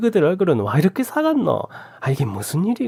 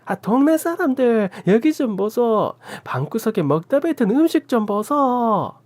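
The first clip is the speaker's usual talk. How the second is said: furious scolding; 9 semitones higher than usual. A narrator's reading. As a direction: rant and shame them for everyone to hear. Aunt keeps scolding the couple.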